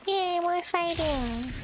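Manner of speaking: sarcastic yay. Real, not acted. Sarcastic about combat.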